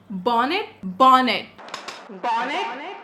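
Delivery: baffled repeating. Retold or imitated. Baffled repeating the word bonnet.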